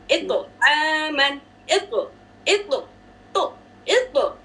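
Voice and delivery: इतो with the तो bouncing back. Shown as a demonstration. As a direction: let the तो in इतो echo at the stop. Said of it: "Bouncing back sound है".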